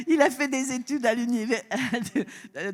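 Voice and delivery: laughing through the stumble; laughing while talking. Real, not acted. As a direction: push through the giggles. Still laughing after the fumble.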